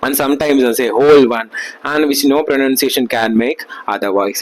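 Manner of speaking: reading each word out very slowly, like dictation; slow textbook reading. Acted. Teacher dictating notes to students, very slowly. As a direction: read the notes out for the class to copy. Reads English text aloud slowly.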